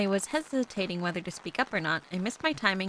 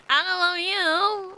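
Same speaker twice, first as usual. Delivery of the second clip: laughing denial; 10 semitones higher, 4 dB louder, slower than usual. Real, not acted. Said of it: "denying the accent, laughing".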